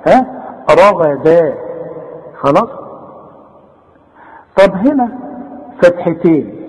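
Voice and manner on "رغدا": رغدا with dark RA-GHA and thin DA; light dal. Shown as a demonstration. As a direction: keep the final D of رغدا light. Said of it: "الدال دي رقيقة قوي".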